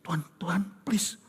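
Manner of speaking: soft unvoiced pleading; whispered prayer.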